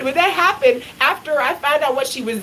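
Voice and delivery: ordinary delivery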